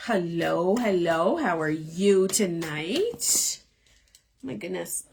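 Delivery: hoarse, fading voice; strained, worn-out voice; losing voice. Real, not acted. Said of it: "I can't believe I'm losing my voice".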